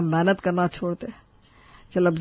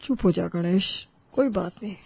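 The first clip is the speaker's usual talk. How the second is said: calming restraint; 4 dB quieter than usual. Acted. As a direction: gently settle a heated younger brother. बड़ा भाई झगड़ा शांत कराता है. (धीमे से शांत कराते हुए)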